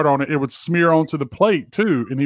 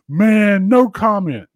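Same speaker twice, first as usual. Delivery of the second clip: a hint of a pissed-off athlete, louder; lightly voiced pissed-off Mike Vick; mock Mike Vick; 5 semitones higher, 5 dB louder, much slower than usual. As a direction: bark it out like an annoyed player.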